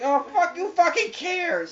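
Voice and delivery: exasperated outburst. Retold or imitated. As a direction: throw it out as a hammed-up fed-up yell. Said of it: "I'm like".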